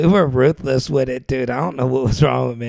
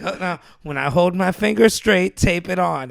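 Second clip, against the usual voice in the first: raised-pitch instructions, mildly imitating a yelling father; retold yelling dad; 5 semitones higher than usual. Injured father directing his son's taping, mild mock yell. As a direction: imitate dad calling out orders in pain.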